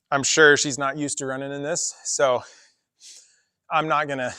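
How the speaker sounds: panting between words; out of breath. Real, not acted. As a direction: talk while catching your breath. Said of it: "you can tell I'm out of breath".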